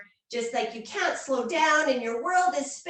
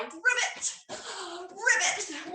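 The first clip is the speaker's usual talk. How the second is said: frog ribbit; 4 semitones higher, much slower than usual. Shown as a demonstration. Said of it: "make the sound of a frog".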